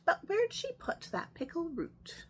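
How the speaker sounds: hushed storyteller whisper. A narrator's reading. Narrator hushing the children on the refrain, whispered. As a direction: whisper it like a secret.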